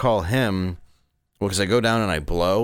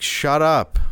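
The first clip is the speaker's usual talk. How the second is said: loud mock snap, higher pitch; drunk snapping; 9 semitones higher, 6 dB louder than usual. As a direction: tell him to shut up, loud and sharp. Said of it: "so I'm like".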